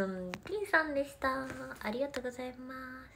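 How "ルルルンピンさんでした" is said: ordinary talk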